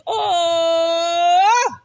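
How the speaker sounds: slow the second half, pleading like the other part of you; playful imitation of a needy inner voice; mock whiny voice. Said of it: "c'est le zéro virgule quatre-vingt-dix-neuf pour cent qui a dit".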